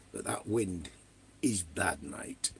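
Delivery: trailing into a whisper; whispered complaint. Real, not acted. Griping to chat about the wind, fading to a whisper. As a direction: let it fade to a whisper.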